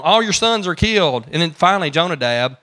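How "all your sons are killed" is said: raised, urgent announcement; dramatic false news. Retold or imitated. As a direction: blurt the terrible news loudly. False report voiced dramatically.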